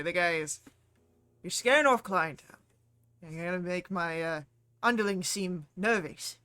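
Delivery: angry. Acted. GM voices angry dwarf smith.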